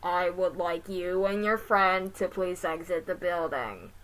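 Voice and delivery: loud, slow robotic announcement. Acted. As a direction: speak like a mall security robot. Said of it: "the robot said".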